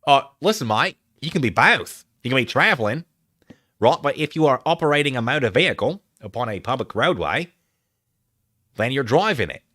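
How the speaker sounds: put-on Australian accent, swooping pitch; lecturing in broad pretend Australian. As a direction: explain it in a mock Aussie accent. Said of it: "I'm losing the accent".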